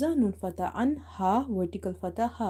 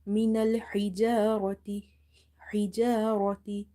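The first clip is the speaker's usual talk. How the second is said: recitation. Shown as a demonstration. Models the verse words after spelling.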